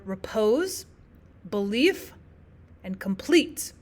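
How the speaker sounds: "repose", "belief", "complete" each said unstressed then STRESSED; iambic stress. Shown as a demonstration. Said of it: "our stressed syllable comes at the end".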